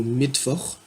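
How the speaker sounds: Mittwoch with its W as v; W pronounced as V. Shown as a demonstration. Teacher's example Mittwoch, W heard as v. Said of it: "on entend V".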